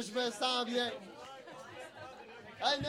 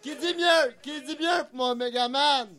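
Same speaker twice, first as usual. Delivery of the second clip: auctioneer calling out bids. Pretend. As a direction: call each bid like an auctioneer. Runs a mock auction.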